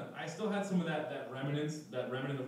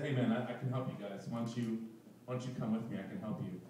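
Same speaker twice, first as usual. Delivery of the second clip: shady offer; 5 semitones lower, 6 dB quieter, faster than usual. Retold or imitated. Shady helper offering help.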